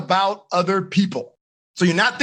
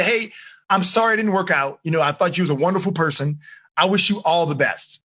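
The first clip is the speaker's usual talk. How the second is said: lower, gentle and sincere; mean every kind word, lower; sincere sweet text; 4 semitones lower than usual. Shown as a demonstration. Teacher models a sincere breakup text, gentle and low. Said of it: "And be sincere about it".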